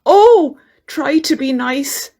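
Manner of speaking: high frightened cry, then pleading; hammed-up frightened plea; scared lion.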